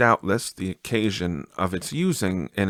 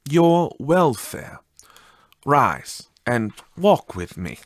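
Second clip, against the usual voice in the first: ghostly spirit voice; 4 semitones higher than usual. Acted.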